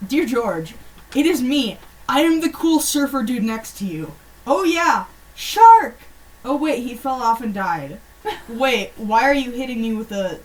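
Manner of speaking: mock-surprised shout; cool surfer dude letter. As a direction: ham up the kid's adventure. Reading kid letter dramatically.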